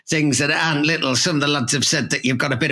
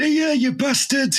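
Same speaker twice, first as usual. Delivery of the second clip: mock impression of a pop singer; 12 semitones higher than usual. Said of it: "he turned round and went; Not like a pop singer".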